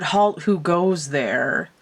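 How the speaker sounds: slow, lightly mimicked sentry challenge; Monty Python knight. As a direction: lightly quote a film knight, drawn out. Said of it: "from Monty Python and the Holy Grail".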